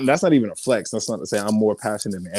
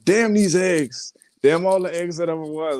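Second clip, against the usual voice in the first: about to laugh; 7 semitones higher than usual. Retold or imitated. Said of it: "And I start laughing".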